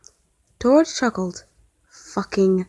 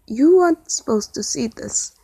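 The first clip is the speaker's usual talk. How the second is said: calm; 3 semitones higher than usual. Acted. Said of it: "he said calmly".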